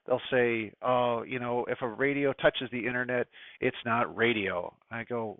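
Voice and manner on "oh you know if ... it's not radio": lightly voiced grumpy old ham, drawn out slow at the end; mock a grumbling old-timer, dragging "it's not radio"; a hint of a cranky club old-timer scoffing; crotchety old ham. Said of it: "some old crotchety hams".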